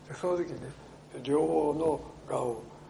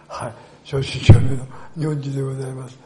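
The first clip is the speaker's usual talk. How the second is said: eager loud reply; 13 dB louder than usual. Retold or imitated. Eager reply to the old woman.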